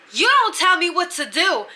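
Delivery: high-pitched imitation of an indignant bully; mock angry. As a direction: act out a hot-headed comeback. Bunkie snapping in retold quarrel.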